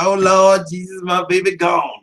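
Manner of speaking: hammed-up grieving mother at a funeral; wailing church mother. Fan mourning Khan like a church mother, mock wail.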